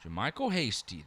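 Hasty said as HAY-stee; joking mispronunciation. Acted. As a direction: say Hasty with a long A, teasingly. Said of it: "Just kidding".

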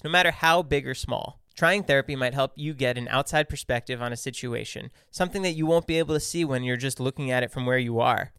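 even, measured podcast ad read; tidy scripted sponsor message. Real, not acted. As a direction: read the ad copy smoothly and clearly. Reads a sponsor ad.

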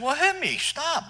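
high, loud dare to hit; daring shout. Retold or imitated. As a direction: shout the dare back at him. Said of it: "I said".

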